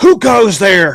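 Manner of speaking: rough, worn-out calling voice. Game master voicing a limping dwarf calling out to the players, gruff, haggard voice. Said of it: "In a gruff, haggard voice".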